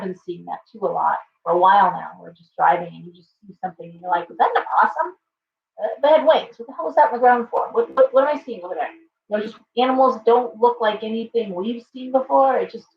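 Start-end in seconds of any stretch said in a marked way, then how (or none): 4.3-8.9 high, fast startled rambling. Retold or imitated. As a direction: blurt it out, spooked by something on the road. Imitating startled driver seeing creatures.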